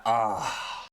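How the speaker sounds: long, breathy "ah" of relief; mock sigh of relief; relieved sigh. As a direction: sigh as if the hot water just hit. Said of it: "the relief".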